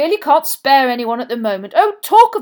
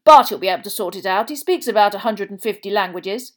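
loud, cheerful and raised in pitch; 6 semitones higher, 13 dB louder than usual. A narrator's reading. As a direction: boom it out like a jolly official. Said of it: "Bagman turned most cheerfully back".

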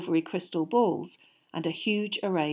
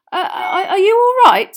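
concerned; 13 semitones higher, 13 dB louder than usual. A narrator's reading. Harry unsure addressing fallen knight.

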